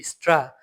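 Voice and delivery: স্ট্রা said as one German syllable with a clear s; teacher's crisp example of স্ট্রা; German pronunciation. Shown as a demonstration. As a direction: model স্ট্রা the German way, falling at the end. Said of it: "ডয়েচে উচ্চারণ করলে এই জিনিসটা এরকমই হবে".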